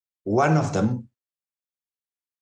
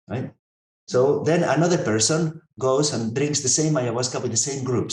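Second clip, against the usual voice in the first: normal talking voice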